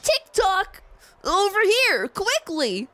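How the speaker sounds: high, loud call-out; cartoon character calling someone over, high and urgent; excitable clock character.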